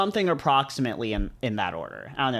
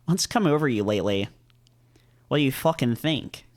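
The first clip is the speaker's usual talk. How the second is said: put-on British accent. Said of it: "same British accent I was doing".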